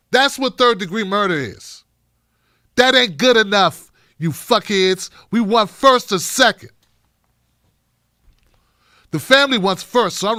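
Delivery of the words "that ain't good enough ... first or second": loud, indignant demand; fed-up, louder outburst; angry rant. Real, not acted. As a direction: bark it at them in anger.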